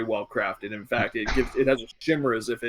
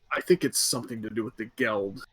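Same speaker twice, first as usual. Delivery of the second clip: hushed, wary soldier, softer than usual; quiet, almost whispering; 3 semitones lower, 6 dB quieter than usual. Acted. Soldier confiding fears about the Geld, hushed. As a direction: lower the volume, nearly a whisper. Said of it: "he says quietly, almost as if he's wh-, whispering".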